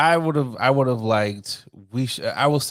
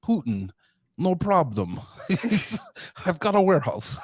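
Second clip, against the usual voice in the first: laughing imitation; 5 semitones higher than usual. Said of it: "He like".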